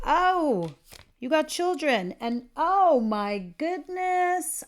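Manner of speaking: high, loud gasp of discovery; surprised. Real, not acted. Card reader reacting to children in the cards, surprised.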